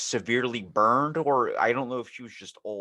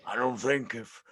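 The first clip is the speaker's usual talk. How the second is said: Reagan impression. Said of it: "He said".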